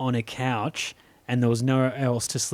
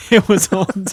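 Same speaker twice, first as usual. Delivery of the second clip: high, loud laughing cry; laughing yelp; 12 semitones higher, 5 dB louder, slower than usual. Retold or imitated. Narrator recalling burnt tongue as a child, laughing. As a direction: squeal it while cracking up.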